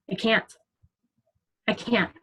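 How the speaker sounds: choked up and barely audible, fighting tears; words squeezed out quietly as tears come; holding back tears. Real, not acted. Quietly choking up while telling the team about comparison. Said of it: "I'm gonna cry again".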